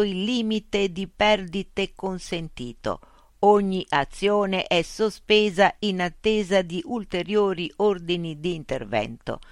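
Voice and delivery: a police station loudspeaker announcing mechanically; slow machine announcer over a speaker; loudspeaker announcement. Acted. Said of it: "L'altoparlante gli diede la spiegazione".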